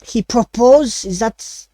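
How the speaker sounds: lightly voiced French chef searching for words; a chef fumbling for the Common word, French accent. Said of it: "he still speaks in a French accent".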